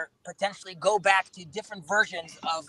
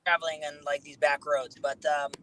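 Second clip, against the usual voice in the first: bad connection; 3 semitones lower than usual. Real, not acted. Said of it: "you're breaking up now".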